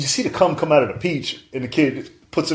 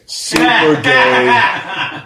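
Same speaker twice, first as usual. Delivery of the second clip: laughing emphasis; 5 dB louder, much slower than usual. Real, not acted.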